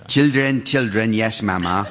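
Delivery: children's rhyme in an attempted Antiguan accent; put-on Antiguan accent. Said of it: "you're not having some stroke or anything".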